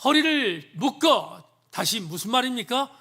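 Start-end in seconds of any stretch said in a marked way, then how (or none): 0.0-1.4 very slow, weighty divine command; God repeating the order slowly to Job. Acted. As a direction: lay out each word like a decree from heaven. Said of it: "이렇게 말합니다".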